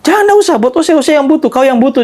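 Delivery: a hammed-up old man pushing the money back; old man refusing. Old man refusing the narrator's money, insistent.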